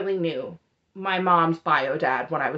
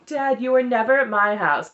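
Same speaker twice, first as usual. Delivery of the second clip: mocking the kids; 2 semitones higher, 3 dB louder than usual. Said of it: "he mocks his kids saying".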